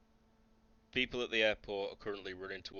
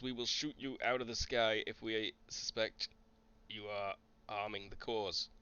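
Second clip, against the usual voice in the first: slightly raised, formal military announcement; stern official warning; 2 semitones higher than usual. Acted. Officer warning a helicopter crew not to open fire, stern and official. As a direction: lay down the terms like an officer.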